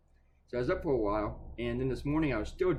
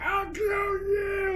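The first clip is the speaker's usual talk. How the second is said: high, drawn-out shouted threat; hammed-up screamed threat; mock furious shout; 5 dB louder, much slower than usual. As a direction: yell it like a crazed man screaming a threat.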